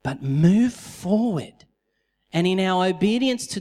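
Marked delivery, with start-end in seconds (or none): 0.0-1.6 gentle encouragement. Retold or imitated. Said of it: "the Lord is just saying".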